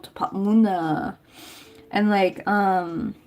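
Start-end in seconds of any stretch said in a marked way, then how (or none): 0.1-1.2 "밥 먹나?" clipped and fast, Busan style; quick Busan-dialect "밥 먹나?"; 부산 사투리로 빠르게. Shown as a demonstration. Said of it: "it came from".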